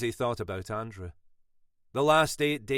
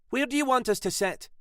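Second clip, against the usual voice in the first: unamused; 13 semitones higher, 5 dB louder than usual. A narrator's reading. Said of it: "Sylvia wasn't amused".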